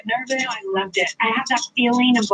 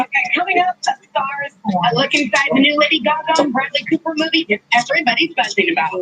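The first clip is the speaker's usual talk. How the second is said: upbeat coming-up-next promo read; TV host tease. Acted. TV segment tease.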